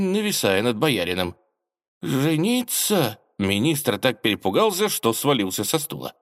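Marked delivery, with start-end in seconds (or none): 2.0-3.2 high, slow aghast question; frightened surprise. Acted. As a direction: gasp it out in shock. Министр в испуге. (испуганно, изумлённо)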